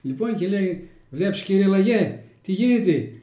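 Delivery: the hare and the tortoise told in Kozani Greek dialect; homely village fable in Kozani dialect. Shown as a demonstration. Telling the next fable to the interviewer, in Kozani dialect. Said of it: "Στα κοζανίτικα".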